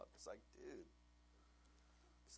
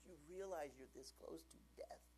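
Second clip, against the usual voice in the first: stern father; 3 semitones higher, 7 dB quieter than usual. Retold or imitated. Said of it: "I'd just like".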